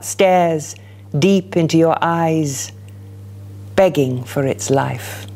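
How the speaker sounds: measured, dramatic poem reading; poetry reading. Acted. Poet reading her poem aloud to the audience, measured and dramatic. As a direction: let each image land for the room.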